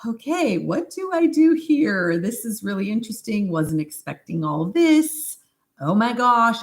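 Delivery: high, held-in voice, mock composure; trying to stay calm. Practitioner talks herself through a client's crisis, forced calm. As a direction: act like you're keeping calm while rattled. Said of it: "trying to be really calm".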